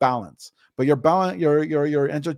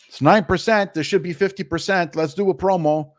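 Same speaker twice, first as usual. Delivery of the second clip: higher, mildly worked-up quote; mock fretting; 5 semitones higher, 3 dB louder than usual. Mimicking owners who chase a weak product, mock fretting. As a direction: imitate someone jumping at a weak number.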